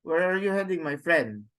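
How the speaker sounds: "Where are you heading" lifted, "my friend" falling; demonstrated English question tune; question intonation. Shown as a demonstration. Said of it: "it goes up".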